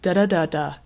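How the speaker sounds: quick, even "da, da, da, da" syllables; rhythm-only demo, "da, da, da, da" run together; unstressed rhythm. Shown as a demonstration. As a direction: tap out "da, da, da, da" without stress. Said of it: "being faster".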